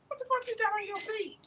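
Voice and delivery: yelling in mock outrage; incredulous yell. Real, not acted. Teasing quarrel over shoes.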